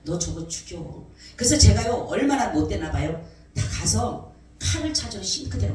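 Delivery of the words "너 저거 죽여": low, slow murmur of a dark thought; softly retold voice of temptation; sinister inner voice. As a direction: slowly urge murder under the breath. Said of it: "그러더라니까".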